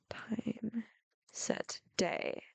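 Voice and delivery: breathy whispered recall; whispering. Real, not acted. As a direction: whisper it to yourself. Whispering a Minecraft command.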